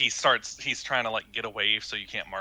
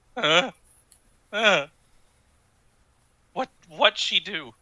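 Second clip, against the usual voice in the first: slightly fearful, high, slow voice; 8 semitones higher, 6 dB louder than usual. Narrator voicing a man facing an intimidation attempt: slight fear in voice. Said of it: "you can hear the slight fear in his voice".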